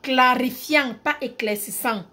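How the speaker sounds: emphatic Cameroonian accent demo. Shown as a demonstration. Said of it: "Je mets l'accent camerounais".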